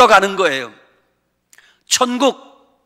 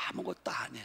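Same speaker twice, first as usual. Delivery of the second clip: ordinary talk, nothing marked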